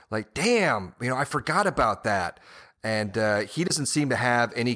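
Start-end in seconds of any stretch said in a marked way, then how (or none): 0.3-2.4 imitated surprised recollection, "damn" pitched up; genuine surprise. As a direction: act out suddenly remembering, higher at the start. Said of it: "like, genuine".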